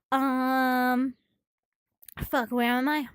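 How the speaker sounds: breathless, winded talking; out of breath. Real, not acted. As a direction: speak between heavy breaths. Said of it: "so out of breath".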